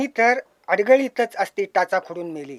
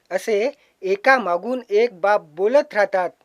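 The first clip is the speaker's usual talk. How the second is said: slower, fuller reciting voice; poem recital; 3 dB louder than usual. Shown as a demonstration. Poet reciting his verse to the audience, slow and full. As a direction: declaim it to the hall. Poet rehearses line twice.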